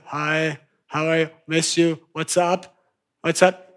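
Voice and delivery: soft, hurried little greetings; a hushed, eager run of hellos; quick needy texting. Retold or imitated. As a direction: rattle off the needy messages quietly. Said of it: "back to".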